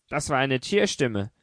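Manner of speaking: ordinary delivery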